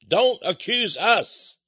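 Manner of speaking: slow, drawn-out mock protest; sarcastic slow don't accuse us; mock plea. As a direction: plead innocence, dripping with sarcasm.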